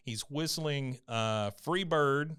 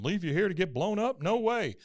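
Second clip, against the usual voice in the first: mock protest; 7 semitones higher than usual. Acted protest in recap.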